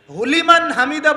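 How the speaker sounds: "হুলিমান হামিদা" with "হু" fused onto "লিমান"; made-up word. Retold or imitated. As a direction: mimic the wrong joining in "হুলিমান". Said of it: "বলে কোনো শব্দ আছে". ("হুলিমান হামিদা" ভুল জোড়া লাগিয়ে বলা)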